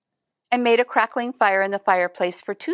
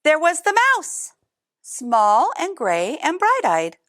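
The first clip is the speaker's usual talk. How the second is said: dramatic reveal; 6 semitones higher than usual. A narrator's reading. Reveal of the mouse.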